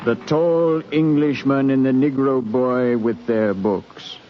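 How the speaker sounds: calm, measured retelling of the voyage; a captain looking back on the crossing; story narration. A narrator's reading. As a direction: tell it like a ship's log read aloud.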